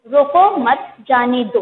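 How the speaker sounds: slow, evenly spaced words in रोको मत जाने दो; unpunctuated reading. Shown as a demonstration. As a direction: read रोको मत जाने दो slowly, favouring neither meaning. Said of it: "स्पष्ट नहीं हो रहा है".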